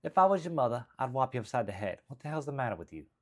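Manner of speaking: milder Jersey woman's scolding; Jersey accent. Acted. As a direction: replay the Jersey telling-off, starting high and easing down. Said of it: "the act out is the accent".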